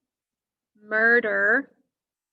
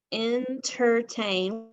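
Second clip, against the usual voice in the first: entertain repeated slowly; slower than usual. Shown as a demonstration. Teacher repeating Entertain slowly for the class. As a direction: say Entertain again slowly and clearly. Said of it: "Part of that word says er".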